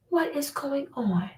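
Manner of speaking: hushed whisper of disbelief. Real, not acted. To the audience, a stunned whisper.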